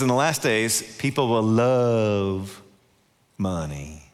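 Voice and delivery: drawn-out, dropping to "money."; slow solemn warning. Acted. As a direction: linger heavily on "love" then "money.". Reading scripture warning slowly.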